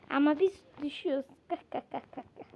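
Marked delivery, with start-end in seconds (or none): 1.5-2.4 quiet cackle. Real, not acted. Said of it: "Nesi gülünecek abi bunun?".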